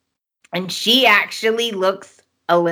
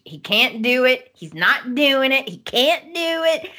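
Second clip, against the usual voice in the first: mock infuriated Ridge; 5 semitones higher than usual. Podcast host mimics Ridge refusing over and over, mock infuriated. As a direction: run through his refusals in a raised, mocking pitch. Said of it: "This infuriates Ridge".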